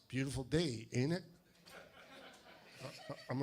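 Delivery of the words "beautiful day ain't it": Southern small-talk drawl, lightly imitated; easygoing Southern gas station clerk, mildly mimicked; slow Southerner. Georgia clerk chatting to a waiting customer, slow Southern talk. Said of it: "They talk slow".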